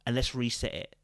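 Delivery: softly, gently calming a partner down. Shown as a demonstration. Showing women how to calm a heated man, softly. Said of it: "you calm the voice".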